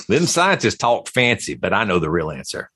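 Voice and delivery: a hint of a North Georgia redneck preacher; redneck North Georgia guy. Joking impression of a creationist, light North Georgia accent. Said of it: "I was doing redneck North Georgia guy".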